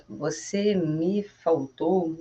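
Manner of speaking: você me faltou said very slowly; wrong literal version. Shown as a demonstration. Teacher showing a bad literal translation. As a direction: drag out the wrong phrase. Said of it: "a gente não fala assim".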